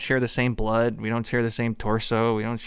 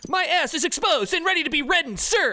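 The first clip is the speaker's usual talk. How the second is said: eager pledge. Acted.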